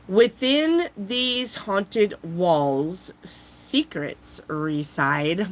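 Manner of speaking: very slow, eerie reading; ominous reading. Acted. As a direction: read it like a ghost story.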